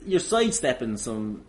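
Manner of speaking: ordinary delivery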